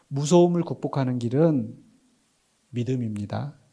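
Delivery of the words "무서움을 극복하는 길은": ordinary talk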